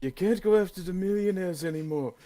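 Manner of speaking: mock Bernie voice. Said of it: "Are you talking about Bernie Sanders?".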